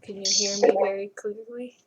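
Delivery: close, boomy mic in mouth; too close to the mic. Real, not acted. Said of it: "the mic is in your mouth".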